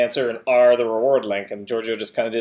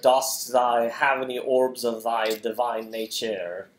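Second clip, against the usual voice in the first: hint of stately olden-times speech; mock archaic speech; slower than usual. Co-hosts playing with archaic wording, mock stately. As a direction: recite it like a hammed-up old proclamation.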